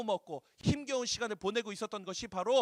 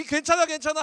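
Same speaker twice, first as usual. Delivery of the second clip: clueless husband; 7 semitones higher, 7 dB louder than usual. Retold or imitated. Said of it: "하고 있는 이 마음이".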